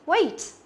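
"weight" with a full "ay" glide, falling; teacher's careful "weight", gliding from e to i; correct vowel demo. Shown as a demonstration. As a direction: model "weight" clearly with the long A. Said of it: "Nó là âm A".

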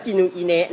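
จินุอิเนะ read syllable by syllable, "ji-nu-i-ne"; จินุอิเนะ with a vowel closing every syllable; Japanese-style misreading. Retold or imitated. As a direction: sound out จินุอิเนะ like Japanese romaji. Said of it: "ถ้าเป็นคนญี่ปุ่น อ่านว่า".

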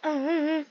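odd little humming noise; weird hum. Real, not acted. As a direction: hum oddly to yourself. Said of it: "I'm making these weird sounds".

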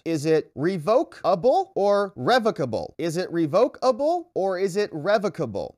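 revocable said two ways, ree-VOH-kable then REV-ocable; judge asking pronunciation. Retold or imitated. Judge quizzing Don Junior on pronunciation, two readings of revocable. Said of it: "How does one pronounce the revocable".

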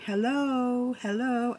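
a high, soft little plant voice greeting; lightly voiced plant, high and soft; plant saying hello. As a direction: voice the succulent saying a tiny hello. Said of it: "The gorgeous Whimsy saying".

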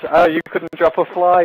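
high mocking kid voice; mimicking a squeaky kid. Mocking a kid's taunt to a friend, high mocking voice. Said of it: "one talks like this and the other".

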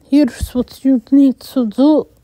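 put-on light Hispanic accent on "Here's what you need to do". A narrator's reading. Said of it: "He had a thick Hispanic accent".

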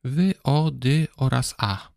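"wy, o, dy oraz a" sounded one by one; name each sound of "wy, o, dy oraz a" apart; separate sounds. Shown as a demonstration. Teacher splits woda into four sounds, spelled out sound by sound. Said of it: "woda to cztery głoski".

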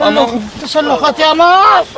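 pained shout. Acted. Pained complaint, shout heard.

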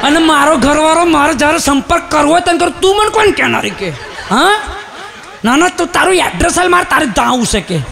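angry wife. Retold or imitated. Wife scolding the recorded phone lady, mock angry.

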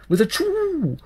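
high, whooping exclamation; excited cry. A narrator's reading. Narrator whoops each leap of the dancing child, high. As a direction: fling it out with the leap.

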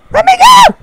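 high, loud creepy ghost cry; creepy old man. Acted. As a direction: wail it like a haunted old man. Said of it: "Creepy old man".

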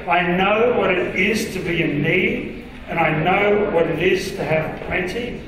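slow, measured verse reading; deliberate pace, spacing out each phrase; group scripture reading. Acted. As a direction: lead a congregation reading aloud together. Leads congregation reading together.

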